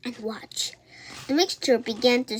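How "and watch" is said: soft secret whisper; voiceless hush to the end. A narrator's reading. Mirabel telling her friend to watch, whispering. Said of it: "whispered Mirabel".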